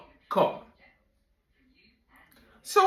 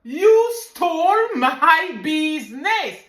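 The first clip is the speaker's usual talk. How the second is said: louder, higher, tearful yell of rage; furious outburst; 5 semitones higher, 5 dB louder than usual. Retold or imitated. Woman yelling at her rival over the phone, tearful fury. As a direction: scream it at the thief who stole your business. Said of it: "I said to her".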